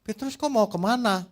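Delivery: a lightly voiced Jesus, surprised; Jesus asking. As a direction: call out to Peter on the road. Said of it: "Ditanya sama Tuhan".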